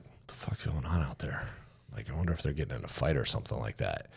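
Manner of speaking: whispered, fast and low. Retold or imitated. Soldier hearing commotion in the hallway, whispered. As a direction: mutter it under your breath.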